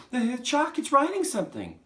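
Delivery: high, loud, stammering excitement; screaming. Acted. Nigel watching the chalk write, screaming. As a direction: shriek it, tripping on the first word. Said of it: "screamed Nigel".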